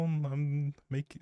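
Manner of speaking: ordinary delivery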